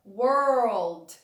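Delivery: world said with a clear r and dark l together. Shown as a demonstration. Teacher gives the finished pronunciation of world. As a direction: say world as were-old joined smoothly. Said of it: "dica de pronúncia".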